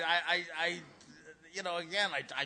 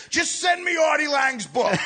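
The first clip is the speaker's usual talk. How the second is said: loud, high, frantic yell down the phone; screaming at wife; 9 semitones higher, 8 dB louder than usual. Retold or imitated. Cop on the pay phone to his wife, shouting. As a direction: yell it at her like he's desperate. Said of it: "I hear the guy screaming at his wife".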